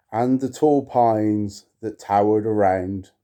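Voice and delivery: measured, solemn recitation; poem reading. Acted. To viewers, reading Poe aloud, solemn poetic recitation. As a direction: intone the verse with gravity. Reads The Lake.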